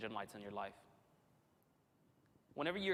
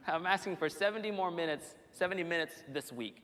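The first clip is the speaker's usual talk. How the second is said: emphatic; 4 semitones higher, 4 dB louder than usual. Real, not acted. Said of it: "I'm just kidding".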